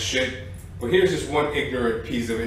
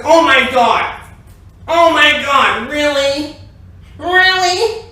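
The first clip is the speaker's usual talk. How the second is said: shrill-high, loud, far-off-sounding mock freakout; hysterical neighbour; 12 semitones higher, 8 dB louder, slower than usual. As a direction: ham up a frantic woman outraged her cycle is done. Neighbour freaking out over laundry.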